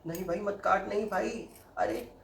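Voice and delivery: high pleading cries; mock panicked pleading. Real, not acted. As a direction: beg yourself to stop cutting. Pleading with himself not to cut.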